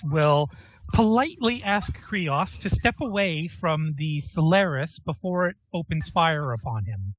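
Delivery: polite, even robotic delivery. Acted. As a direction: speak like a courteous combat robot. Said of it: "You're going quite robot".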